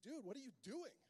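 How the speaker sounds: high, put-out friend at the table; indignant buddy. Acted. Groom to friend refusing food, high and indignant. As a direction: play the best friend, baffled and hurt. Buddy voiced in wedding story.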